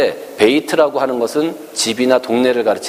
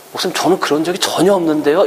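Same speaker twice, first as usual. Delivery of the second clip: skeptical congregant; 6 semitones higher, faster than usual. Retold or imitated. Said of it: "이런 사람도 있더라고요".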